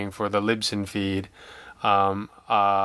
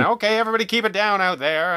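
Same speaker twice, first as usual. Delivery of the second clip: calling out to the room; 9 semitones higher, 3 dB louder, faster than usual. Retold or imitated. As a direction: hush the crowd outside like a busy organizer. Calling out to the studio.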